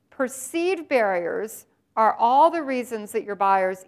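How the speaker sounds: Perceived drawn out slowly and leaned on; stress on perceived. Shown as a demonstration. Presenter stressing Perceived for the audience, slow emphasis. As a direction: give the word Perceived slow weight at the start. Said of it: "I want to emphasize the word perceived".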